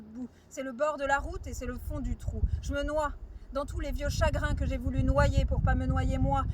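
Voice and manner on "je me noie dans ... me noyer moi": poetic line swelling louder; recited with a rising, insistent force; building intensity. Acted. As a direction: push the volume up as the sorrows overwhelm. Poem reaches drowning in sorrows.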